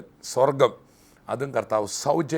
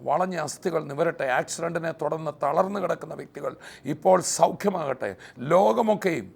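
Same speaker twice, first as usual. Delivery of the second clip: higher-pitched, insistent prayer, building in force; fervent healing prayer; 4 semitones higher than usual. Real, not acted. Preacher commanding sicknesses to heal in Jesus' name, fervent prayer. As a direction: pray it out urgently, line by line, rising to a peak.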